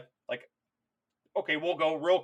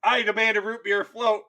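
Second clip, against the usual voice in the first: petulant demand; 4 semitones higher, 5 dB louder than usual. Retold or imitated. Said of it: "same madman demands".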